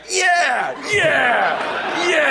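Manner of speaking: a lightly screeched bird cry; mock bird squawk. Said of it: "all the birds were like".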